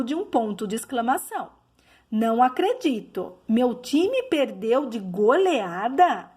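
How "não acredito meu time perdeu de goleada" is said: disbelief at the score, stretched out; emotional question. Shown as a demonstration. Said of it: "É uma pergunta com uma aí emoção".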